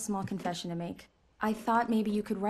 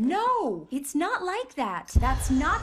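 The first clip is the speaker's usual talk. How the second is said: loud, urgent, slowed plea; raised voice, begging; desperate denial; 5 semitones higher, 6 dB louder, slower than usual. Acted. Wife denies, desperate.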